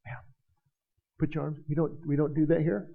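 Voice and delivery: hushed, stern usher scolding a worshipper; mock stern deacon. Deacon hushing an excited woman in church, mock stern. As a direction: shush her like a disapproving deacon. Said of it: "the deacons will go".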